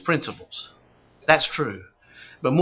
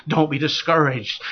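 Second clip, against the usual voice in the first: gentle reassurance; 3 semitones lower than usual. Real, not acted. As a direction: drop the voice and comfort them with "Don't be discouraged".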